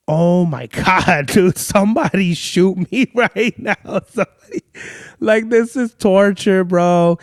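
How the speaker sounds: tortured mock wail, stretched out; exasperated agony. Acted-out agony at boring stranger.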